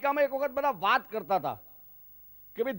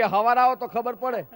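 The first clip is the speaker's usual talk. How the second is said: Saurashtra dialect; 3 semitones higher, 5 dB louder than usual. Retold or imitated. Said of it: "કડિયા છે".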